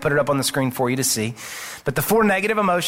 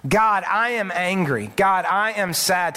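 honest prayer; 2 semitones higher than usual. Shown as a demonstration. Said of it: "to say to God".

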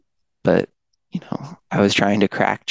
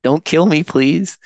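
high, louder, hammed-up pleading; mock plea; 8 semitones higher, 4 dB louder than usual. Drugged patient begging the ER doctor, hammed-up high plea. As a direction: beg the doctor not to kill you, half in jest.

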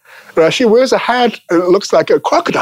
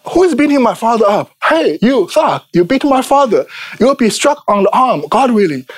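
higher-pitched acted challenge, volume barely raised; mock indignant daughter; 4 semitones higher than usual. Daughter confronting the man beating her father, mildly acted indignation.

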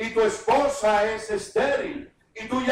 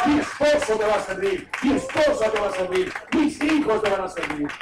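forceful preaching. Acted. Preacher declaring faith forcefully.

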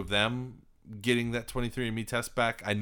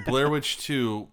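incredulous; 3 semitones higher, 6 dB louder, much slower than usual. Real, not acted. Incredulous repeat of movie title.

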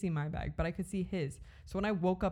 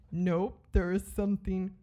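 urgent words through clenched teeth; through gritted teeth. Retold or imitated. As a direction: hiss it with the jaw locked. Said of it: "again, through my teeth".

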